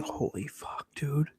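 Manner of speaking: breathless whispered awe; awed whisper. Retold or imitated. Kids on the bus whispering in amazement. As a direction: hush it like you can't believe it.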